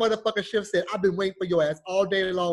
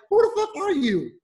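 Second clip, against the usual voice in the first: higher and louder, indignant demand; mock angry yell; 8 semitones higher, 4 dB louder than usual. Man yelling at the bill collector, in a mock angry yell. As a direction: snap at the caller in outrage.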